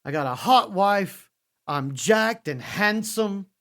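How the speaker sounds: imitating Drew McIntyre's self-pep talk; mock Drew McIntyre. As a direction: play him boasting to the mirror. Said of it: "he's like".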